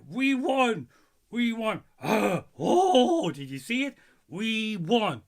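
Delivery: put-on yelled high, drunk fan celebrating; drunk fan cheering. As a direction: shout it like a drunk fan whose team just won. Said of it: "and I say".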